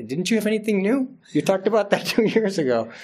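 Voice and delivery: lightly hammed-up whiny listener; mock complaining congregant. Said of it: "then they say".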